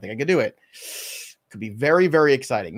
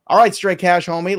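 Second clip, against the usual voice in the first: hyped shout; 4 semitones higher, 7 dB louder than usual. Acted.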